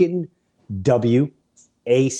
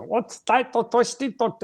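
high mock question; 12 semitones higher, slower than usual.

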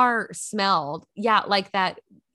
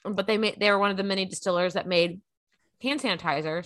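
talking around a piece of ice; words slightly muffled by ice in mouth; 3 semitones lower, 4 dB quieter than usual. Real, not acted. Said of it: "I have a piece of ice in my mouth".

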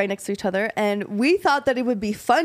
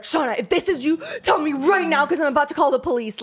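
imitating an upset sister, higher; urgent threat, retold without tears; retold frantic demand; 4 semitones higher than usual. Sister confronting prankster about police, imitated frantic demand. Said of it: "And she's bawling her eyes out".

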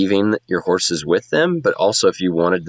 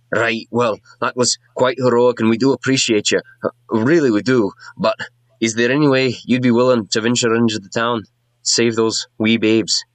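higher, lilting small-town dwarf; dwarf mayor voice; 4 semitones higher than usual. Acted. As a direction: plead politely as the village dwarf.

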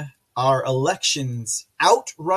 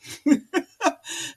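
high-pitched giggle; short burst of high laughter; laughing; 11 semitones higher than usual. Real, not acted. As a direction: giggle at your own line. Laughing after own remark.

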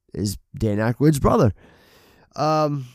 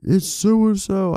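mock scream; 9 semitones higher, slower than usual. Imagined listener yells at the podcast, half-hearted mock scream. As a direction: imitate an exasperated listener yelling the answer. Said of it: "Someone's probably screaming right now".

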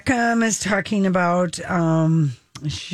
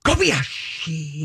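announcer call; 5 semitones lower, much slower than usual. Retold or imitated. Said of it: "always used to love going".

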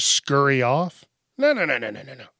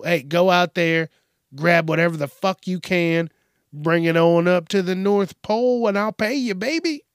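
mock Santa boss; 3 semitones higher, 3 dB louder than usual. Voicing Santa hiring thieves.

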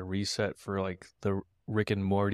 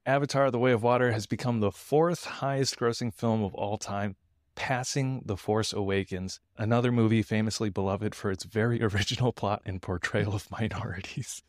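monologue joke delivery. Shown as a demonstration. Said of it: "in the style of a monologue joke".

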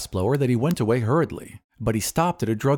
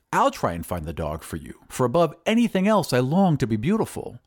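eager; 3 semitones higher than usual. Acted. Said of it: "said the glassblower eagerly".

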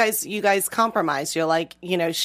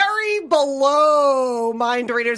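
laughing; 5 semitones higher, slower than usual. Real, not acted. Laughing rant about men.

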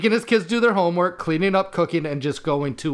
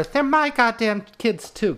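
quoting the angry dad; 7 semitones higher, slower than usual. Retold or imitated. Quoting movie line in character.

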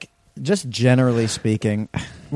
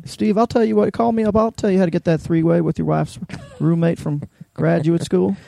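Bill Clinton impression; 5 semitones higher than usual. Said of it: "my new Bill Clinton impression".

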